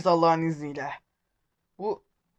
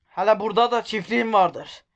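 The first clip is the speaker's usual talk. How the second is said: Black Sea accent. Shown as a demonstration. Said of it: "Evet, şiveye geçtim".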